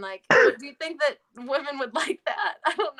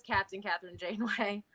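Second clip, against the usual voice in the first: light Iowa-British Janeway accent; Janeway's odd Iowa accent, lightly; Captain Janeway; 4 semitones lower, 10 dB quieter than usual. Shown as a demonstration. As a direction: slip into a hint of a British-tinged Iowa accent. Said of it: "you can do her accent. That was really good".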